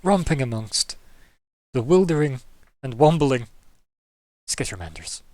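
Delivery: loud, hammy documentary narrator; nature documentary. Pretend. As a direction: narrate the wild creatures with gusto. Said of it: "Is this wildlife documentary".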